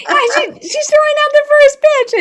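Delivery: put-on very high, thrilled Australian-accented voice. Doreen reporting Lucille's first pitch, thrilled, in an Australian accent. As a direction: squeal it like an excited Aussie. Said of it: "in her very Australian accent".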